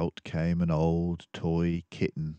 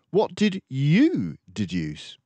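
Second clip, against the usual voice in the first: mildly annoyed Dawson; 9 semitones higher, 6 dB louder, slower than usual. Acted. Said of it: "somewhat annoyed at his tone".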